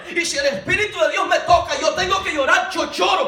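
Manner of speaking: fervent, driving sermon delivery; urgent, emphatic pulpit testimony; impassioned preaching. Acted. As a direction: preach it with rising fervour. Preaches at full force.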